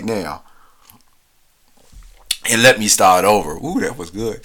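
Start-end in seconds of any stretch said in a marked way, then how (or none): 2.5-4.4 talking right after a sip; words around a sip of tea; sipping tea. Real, not acted. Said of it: "let me take a sip of my tea".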